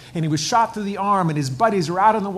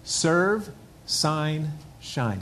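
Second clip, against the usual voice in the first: each word set apart, falling on shine; slow deliberate list; much slower than usual. Shown as a demonstration. Pastor drilling the congregation on three words, deliberate. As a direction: spell out "Serve, sign, shine" word by word. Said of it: "I want you to remember these three words".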